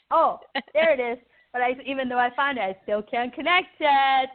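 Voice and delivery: amused, playful exclaiming; laughing. Acted. Cheerful passenger fumbling with the buckle, acted laughing. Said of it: "they're laughing".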